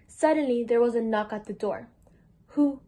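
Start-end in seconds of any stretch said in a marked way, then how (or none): 2.5-2.8 higher, louder, halting squeak; lightly acted timid question. A narrator's reading. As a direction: squeak it out slowly, stumbling on the first word. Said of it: "he squeaked".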